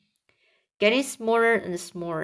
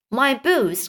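higher cry of dismay; 4 semitones higher than usual. Acted. Centipede fretting over precious boots, mild cry. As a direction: exclaim over a treasured loss. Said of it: "cried the centipede".

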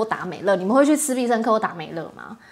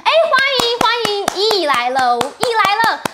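excited greeting; 9 semitones higher, 4 dB louder, slower than usual. Real, not acted. Greeting a viewer arriving on stream.

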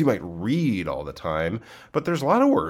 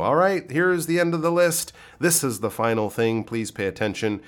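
signalling to listeners; 5 semitones higher than usual. Pretend. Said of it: "waving that flag to let the listeners know".

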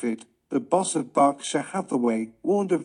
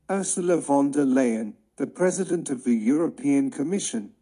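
slowed-down reading. Shown as a demonstration. Reader gives English learners a first listen, slowed down. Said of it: "Ethan会用零点七五的速度先念给我们听听看".

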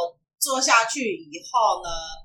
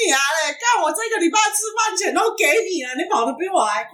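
mock angry curse; 7 semitones higher than usual. Inner curse at the beggar.

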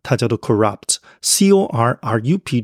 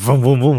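repeated vrooms like a revving motor; engine revving. Shown as a demonstration. Teacher showing how a car feels, revving vrooms. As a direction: imitate a car being revved. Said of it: "这种感觉".

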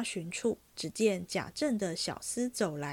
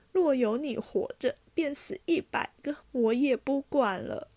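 much higher, louder grief-stricken call; mother calling her dead son; crying out; 5 semitones higher, 4 dB louder than usual. A narrator's reading. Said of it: "便叫着贾珠哭道". (哭喊亡子)

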